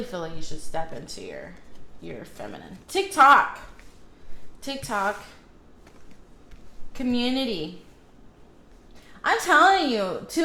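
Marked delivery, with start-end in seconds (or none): 2.9-7.8 calling out. Real, not acted. Calling out reading cards.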